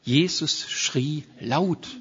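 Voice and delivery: slow emphasis. Shown as a demonstration. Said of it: "die Bibel sagt hier zweimal".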